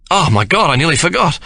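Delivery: high, bright burst of remembering; sudden exclamation. A narrator's reading. Ben startling Sarah mid-kiss, sudden exclamation. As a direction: blurt it out as if it just struck him. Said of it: "he suddenly exclaims".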